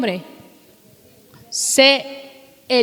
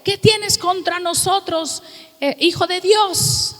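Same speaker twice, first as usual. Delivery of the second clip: demons shouting; 5 semitones higher than usual. Retold or imitated. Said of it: "como los que gritaban en Mateo".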